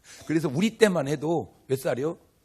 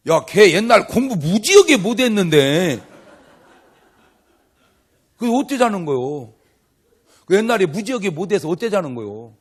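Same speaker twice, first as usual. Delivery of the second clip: loud, higher, jeering; mocking classmate; 5 semitones higher, 10 dB louder than usual. Classmate at reunion mocking past grades, loud jeering. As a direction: jeer at an old schoolmate.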